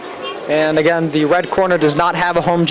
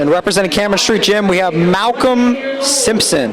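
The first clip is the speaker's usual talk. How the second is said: booming pumped announcer; 3 semitones higher than usual. Acted. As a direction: announce it like a fight night introduction. Echoing the ring announcer's intro.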